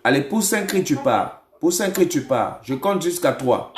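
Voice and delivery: firm, emphatic command; deliverance preaching. Real, not acted. Prophet orders a spirit out of the caller, commanding preaching.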